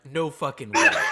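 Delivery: loud, laughing no-way; stunned friend laughing in disbelief; mock disbelief. Backstage friend hearing the news, laughing disbelief. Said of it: "they're like".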